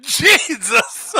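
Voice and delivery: loud high laughing exclamation; shocked laughing outburst; laughing shout. Real, not acted. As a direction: shout Jesus while cracking up. Shocked by picture.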